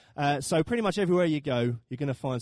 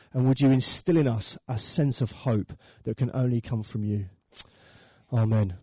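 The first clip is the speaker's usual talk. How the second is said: congregational prayer, easing down toward the amen; real spoken prayer in short petitions; public prayer; 5 dB louder than usual. Real, not acted. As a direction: lead the room in prayer, settling as it closes. Let me pray.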